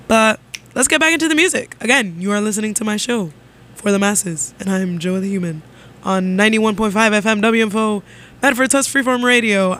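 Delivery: upbeat radio DJ patter. Acted. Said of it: "bringing out the radio D J voice".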